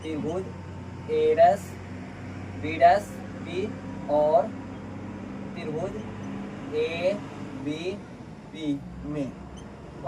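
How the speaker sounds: letter-by-letter dictation, stretched out; drawn-out letters with pauses between; slow dictation. Real, not acted. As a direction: dictate slowly for someone writing it down. Dictates while writing.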